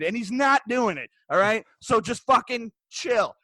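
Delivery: emphatic, measured telling-off with mild anger; retold anger. Server scolding the abusive wife, retold mild anger. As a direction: lay down each point firmly, a touch angry. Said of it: "I'm getting mad now".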